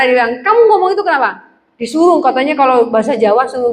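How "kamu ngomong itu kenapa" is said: quick, higher-pitched cross question; mock angry. Offended office friend confronts the speaker, mildly angry. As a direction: imitate an annoyed friend demanding an explanation. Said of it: "waktu dia marah".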